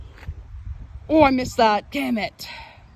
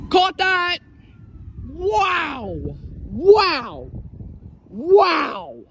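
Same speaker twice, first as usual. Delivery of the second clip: excited; 8 semitones higher, much slower than usual. Real, not acted. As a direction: cheer the catch. Lightning caught on camera.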